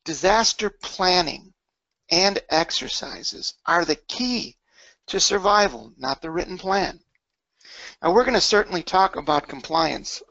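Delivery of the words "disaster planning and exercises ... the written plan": slow, deliberate read-aloud, pausing between phrases. Shown as a demonstration. Presenter reading a key statement to callers, slowly and deliberately. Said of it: "I'm gonna read it slowly".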